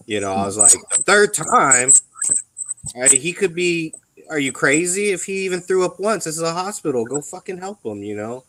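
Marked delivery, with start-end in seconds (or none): 0.9-1.9 higher, drawn-out incredulous repeat; retold losing it. Patient retelling outburst at rude onlooker in hospital, incredulous. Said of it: "I lost my shit". 3.1-8.0 retold losing it. Veteran retells scolding someone over sick Marine, indignant. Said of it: "I lost my shit".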